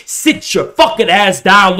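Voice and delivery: ordinary delivery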